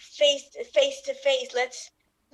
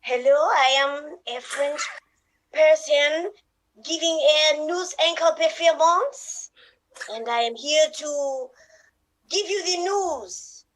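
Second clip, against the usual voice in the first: put-on French accent; 2 semitones higher than usual. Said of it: "You do it in French accent".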